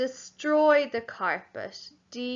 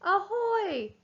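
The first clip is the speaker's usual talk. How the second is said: much higher, sing-song pirate call; pirate shout; 10 semitones higher than usual. Acted. Teacher reading the sentence's pirate shout for pupils. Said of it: "the pirate shouted".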